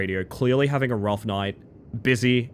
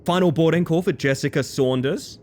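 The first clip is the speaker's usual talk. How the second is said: intercom announcer; 3 semitones higher than usual. Retold or imitated. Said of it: "being like".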